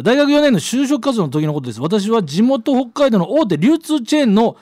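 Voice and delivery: clear, projected radio letter read; storytelling read-aloud voice. A narrator's reading. Reads out listener's letter.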